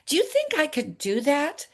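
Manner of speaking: high, wondering question; tentative asking. Retold or imitated. Asking her husband if she could, tentatively.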